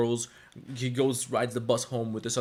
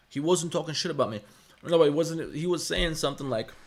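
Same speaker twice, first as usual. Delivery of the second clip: indignant; 5 semitones higher, 5 dB louder than usual. Real, not acted. Defending himself against chat.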